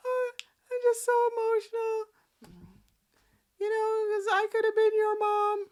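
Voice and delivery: high, loud put-on voices; high hammed-up tearful quote; mock child and a singer. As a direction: ham up the weepy exchange high and loud. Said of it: "Dominic's like".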